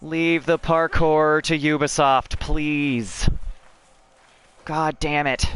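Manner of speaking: slow, loud, high complaint; exasperated plea. Real, not acted. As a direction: drag out the plea in frustration. Exasperated plea after getting stuck.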